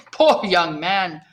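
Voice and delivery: drawn out slowly, pitying; slow, knowing exclamation. A narrator's reading. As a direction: stretch it out, amused pity. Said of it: "he exclaimed".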